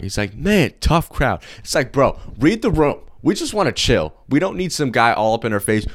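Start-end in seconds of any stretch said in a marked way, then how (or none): 0.3-1.4 sulky clown. Retold or imitated. Clown rejected by group. 1.6-5.9 exasperated rant. Real, not acted. Annoyed rant about the clown.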